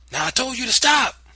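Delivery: high, loud shout to stop; scream. Acted. Boy screaming at his aunt to stop. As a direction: scream it at her. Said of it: "I screamed".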